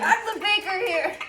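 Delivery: loud, high, drawn-out retort; playful indignation. Pretend. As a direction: assert yourself in mock outrage. Mock quarrel over who bakes.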